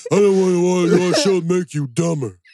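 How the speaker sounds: dim-sounding cartoon character voice. Speaker quotes his dad's objection to the shows he watches, in a Patrick Star voice. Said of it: "That was Patrick Starr".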